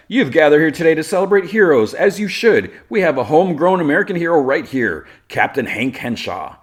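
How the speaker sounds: high, loud, projected announcer voice; rally the crowd, imitating a showman; public speechmaker. Lex at microphone presenting a hero, proclaiming.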